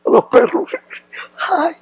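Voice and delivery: put-on high-pitched doggy baby talk; cooing to dogs. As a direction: coo at the dogs like babies. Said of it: "y le digo".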